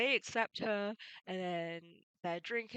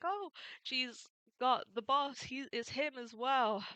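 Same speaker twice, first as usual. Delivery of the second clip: higher and louder, slow, startled crew voice; crew member; 6 semitones higher, 4 dB louder than usual. Retold or imitated. Beaten crew spots their captured boss, excited. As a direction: point out the captured boss in alarm. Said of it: "the team ... is like".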